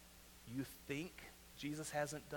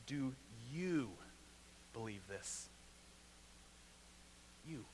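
soft searching question; 5 semitones lower, 11 dB quieter than usual. Shown as a demonstration. Pastor asking the congregation Jesus' question, hushed. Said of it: "I would love to know his inflection".

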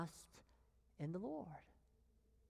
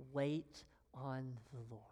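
whispered; 6 semitones lower, 6 dB quieter than usual. Real, not acted. Preacher whispers instruction.

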